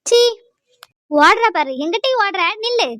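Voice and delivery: angry shout. Acted. Calling after a fleeing woman.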